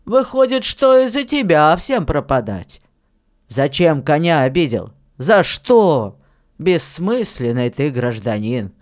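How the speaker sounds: lightly voiced miller scolding a boy, emphatic; reproving elder, forceful on the questions; stern miller, reproachful. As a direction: scold the boy firmly, loudly.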